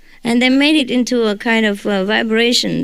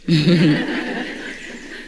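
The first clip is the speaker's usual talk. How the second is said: laugh; 4 semitones lower, 3 dB quieter than usual. Real, not acted. Joking she is not the worst.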